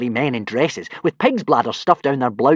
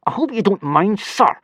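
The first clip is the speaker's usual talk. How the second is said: higher, contemptuous bite; spitting; 9 semitones higher than usual. Acted. Snotlout spitting mock politeness at Gobber. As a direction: sneer it at the teacher. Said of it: "spat Snotlout".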